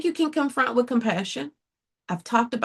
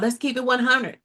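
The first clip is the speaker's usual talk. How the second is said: "Let's keep it one hundred" tossed off like everyone's catchphrase; mock slang catchphrase; 2 semitones higher than usual. Mocking what everybody always says, a breezy catchphrase. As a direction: parrot the popular phrase lightly. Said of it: "Everybody always talking about".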